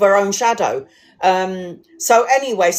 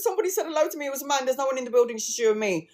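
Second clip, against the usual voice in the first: frightened hush; 5 semitones higher, 7 dB quieter, much faster than usual. Retold or imitated. Scared colleague tells friend.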